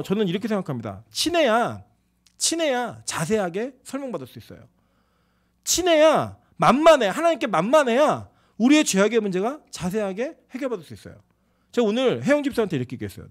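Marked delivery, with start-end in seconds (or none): 5.6-8.3 raised, louder emphasis; punchy sermon emphasis; emphatic. Real, not acted. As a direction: drive the point home, higher and louder. Preacher building to emphatic point.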